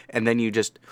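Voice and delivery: ordinary delivery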